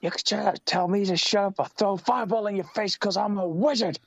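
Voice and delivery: high mock Jericho voice; squeaky imitation of the promo; high-pitched mocking wrestler quote; Jericho impression. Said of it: "repeating Jericho's promo".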